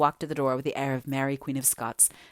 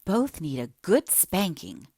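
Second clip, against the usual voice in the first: exasperated. Acted. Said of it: "thoroughly exasperated".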